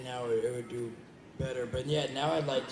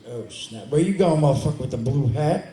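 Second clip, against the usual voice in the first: mock tough shout; 2 semitones higher, 11 dB louder than usual. Fan panel guest hamming up yelling at a kid in a blue hat, mock shout. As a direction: play tough guy yelling across the party. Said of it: "I was like".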